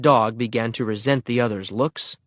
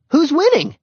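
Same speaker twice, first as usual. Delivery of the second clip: high, loud, eager call; excited question; 7 dB louder than usual. A narrator's reading. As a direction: call out to the crowd. Newcomer calls out over fight.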